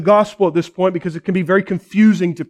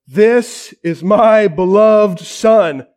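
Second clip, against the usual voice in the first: voice of God; slower than usual. Retold or imitated. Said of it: "The voice says".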